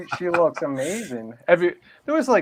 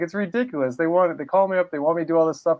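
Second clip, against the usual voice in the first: slightly higher, imitated blunt complaint; Sicilian blunt; 3 semitones higher, faster than usual. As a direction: quote a blunt, no-nonsense wife. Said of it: "she's so Sicilian blunt about it".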